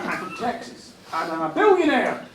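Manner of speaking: lightly mocked Texan accent; American accent. Billionaire caller boasts to the fixer, mock American accent. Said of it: "This is my American accent".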